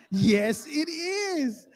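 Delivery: very loud, soaring comeback; insistent retort. Retold or imitated. Husband arguing back with his wife, loud insistent retort. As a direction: shout it back in a high, acted protest.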